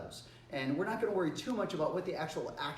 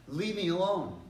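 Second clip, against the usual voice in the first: louder, higher, firm command; very direct; 4 semitones higher, 5 dB louder than usual. Shown as a demonstration. Teacher drops the please to a pest, very direct. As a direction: order it with no softening. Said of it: "being very direct with them".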